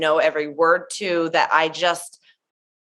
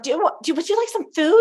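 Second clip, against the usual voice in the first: offering food kindly; 9 semitones higher, faster than usual. Retold or imitated. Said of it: "They were like".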